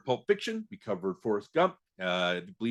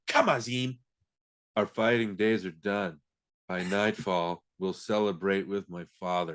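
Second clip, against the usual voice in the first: Robin Hood. Retold or imitated. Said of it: "his accent comes and goes".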